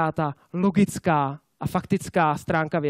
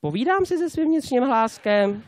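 slow, higher-pitched talking to oneself; drawn-out, raised inner-voice musing; 4 semitones higher, slower than usual. Acted. The silent half talking to themselves, inner voice. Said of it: "se nehlásí a říká si".

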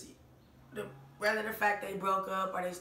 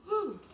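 high exhaled whew; 10 semitones higher than usual. Real, not acted. Overwhelmed after watching the video.

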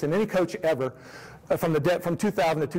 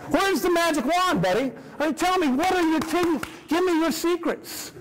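mock pleading; 11 semitones higher than usual. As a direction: plead like an eager rookie begging for tricks. Pestering the master coach for secrets.

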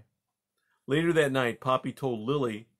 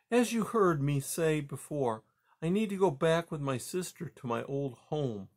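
higher-pitched, patient mother; lightly voiced mother mouse; 5 semitones higher than usual. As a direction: gently voice a mother mouse reasoning with her son. Mother mouse Poppy speaking.

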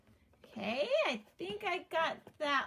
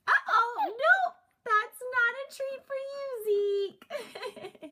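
teasing scold; 5 semitones higher, slower than usual. Real, not acted. Telling real dog off.

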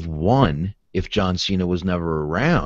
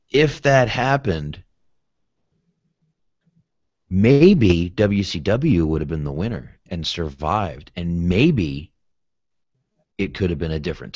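stoner talk; 2 semitones lower than usual. Pretend. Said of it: "real pot talk".

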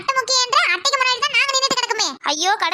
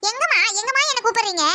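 put-on whiny teen daughter; 3 semitones higher than usual. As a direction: complain like a spoiled teenage girl.

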